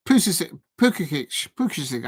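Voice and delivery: fumbling Pulisic, each take dropping in pitch; unsure name attempts. Shown as a demonstration. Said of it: "I don't know how to pronounce his name".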